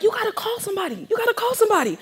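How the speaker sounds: high-pitched, insistent mom voice; imitating urgent mother. Mother's urging voiced in story.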